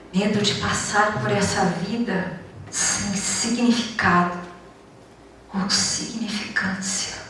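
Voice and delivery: measured monologue, long pauses between phrases; understated, reflective dramatic reading; poetic confession. Acted. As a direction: confide it like a spoken poem, leaving silences. Recites a confession of fears.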